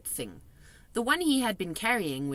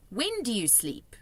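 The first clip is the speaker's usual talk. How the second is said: put-on lightly higher little girl; a hint of a young girl; Sophie's voice; 6 semitones higher than usual. A narrator's reading. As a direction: read her as a polite small girl.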